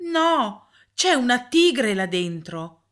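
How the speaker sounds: put-on high, loud frightened child's cry; exclaiming. A narrator's reading. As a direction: blurt it out, scared and insistent. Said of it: "esclamò Charles". (esclamazione acuta e forte di bambino spaventato)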